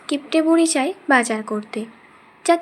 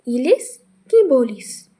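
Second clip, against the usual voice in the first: loud, startled outburst at the idea; grandma aghast at the price of hilsa, loud; shocked disbelief; 5 dB louder, slower than usual. Acted.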